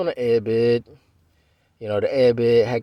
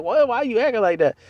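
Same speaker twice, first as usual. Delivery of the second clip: imitating upset girlfriend; 10 semitones higher than usual. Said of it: "kinda upset that I was getting upset".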